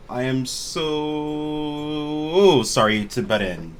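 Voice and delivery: effusive apology. Acted. Woman butting in on strangers, effusively apologetic. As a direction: stretch out an eager apology. Stranger butts into table's talk.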